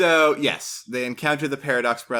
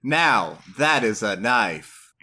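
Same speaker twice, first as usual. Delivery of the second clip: put-on Australian accent; 3 semitones lower, slower than usual. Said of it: "try some Australian accents".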